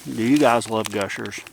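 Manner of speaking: talking through a mouthful; chewing while speaking; mouth full. Real, not acted. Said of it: "talking with my mouth full".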